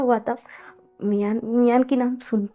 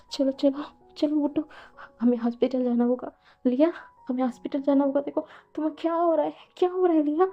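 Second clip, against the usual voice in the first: higher, hushed and anxious; nervous asking; 3 semitones higher, 4 dB quieter, faster than usual. Acted. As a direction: urge her up in nervous worry. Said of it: "घबराते हुए पूछता है".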